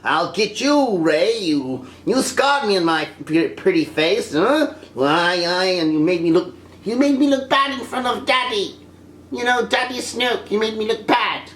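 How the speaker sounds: mock rage; hammed-up villain grievance; Kylo Ren. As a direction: act out a petulant villain tantrum. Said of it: "Kylo Ren should have been angry".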